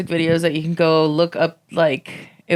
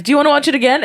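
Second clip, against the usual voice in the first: high, loud, hammed-up eagerness; eager; 9 semitones higher, 5 dB louder, much faster than usual. Kid begging cousin to rewatch, high eager voice. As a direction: pitch it up like an over-keen kid. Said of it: "like, super into it".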